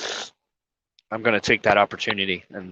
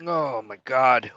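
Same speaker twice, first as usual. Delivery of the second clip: slow tearful; 4 dB quieter, much slower than usual. Real, not acted. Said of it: "Where the hell did that come from?".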